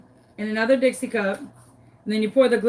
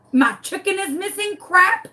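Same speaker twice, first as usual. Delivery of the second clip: mocking; 8 semitones higher than usual. Kat mocks the caller's wail.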